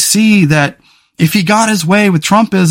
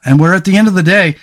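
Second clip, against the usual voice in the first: losing voice; faster than usual. Real, not acted. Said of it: "sorry, I'm losing my voice".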